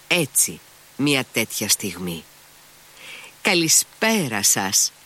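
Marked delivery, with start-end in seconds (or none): 3.4-4.9 slow, high, syrupy greeting; sugary voice. A narrator's reading. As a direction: Maximov greeting Mitya in a sugary voice. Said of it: "είπε με σιρτή φωνή".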